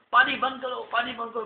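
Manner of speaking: high, loud panicked screams; screaming king. Acted. King screaming as his palace floods, panicked. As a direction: scream for the water to stop. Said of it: "बादशाह चीख रहे हैं".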